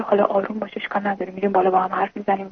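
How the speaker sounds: soft, hushed reassurance; soothing. Retold or imitated. Wife soothing her angry husband, soft and hushed. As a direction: gently talk him down.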